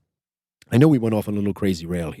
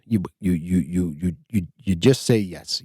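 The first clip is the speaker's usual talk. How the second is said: ordinary talk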